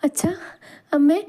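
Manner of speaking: high, excited call to parents. A narrator's reading. Daughter calling to her parents from the car, calling out. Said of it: "കൂകി വിളിച്ചുകൊണ്ട്".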